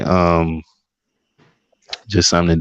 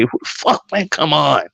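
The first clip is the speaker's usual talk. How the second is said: mock annoyed; 6 semitones higher than usual. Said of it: "I was like".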